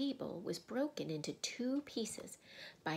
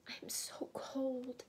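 high, slow, drawn-out complaint; cold little girl; 6 semitones higher, slower than usual. A narrator's reading. Lucy tells her sister she is cold, high plaintive girl voice. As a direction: raise the pitch and stretch it out.

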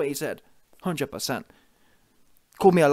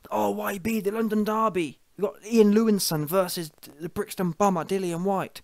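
oversell it like a cheesy promoter; mock hype; 2 semitones higher than usual. Vlogger mocking Dillian selling the London Derby, hammed-up hype.

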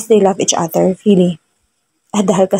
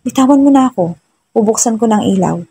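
annoyed; 3 semitones higher than usual. Acted. Sleepy husband tells clinging wife to let go, annoyed. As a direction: push her off, fed up and irritated. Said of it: "Naiinis niyang sabi".

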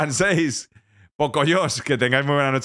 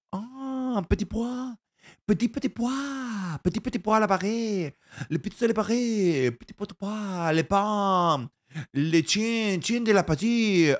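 higher, slow mock French babble; a higher, playful fake French accent; 6 semitones higher, 4 dB quieter, slower than usual. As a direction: gush made-up French words, hammed up.

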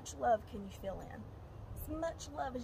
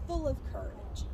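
louder, punchy demo of the shout, "full" stressed; mock scream; 2 semitones higher, 5 dB louder than usual. Shown as a demonstration. Teacher shows kids how to scream it loudly. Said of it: "You're gonna scream".

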